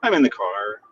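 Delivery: tinny phone line from a car; metallic voice filter. Real, not acted. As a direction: sound like you're in a tin can. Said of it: "I probably sound like I'm in a, a, a tin can".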